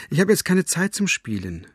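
called through door. A narrator's reading. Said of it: "rief sie durch die verschlossene Tür". (mit höherer Stimme durch die Tür gerufen)

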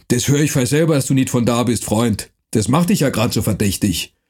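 rough dialect voice, lightly done; gruff Franconian watchman. Acted. Night watchman threatening the stranger, gruff dialect. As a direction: bark it like a mercenary guard.

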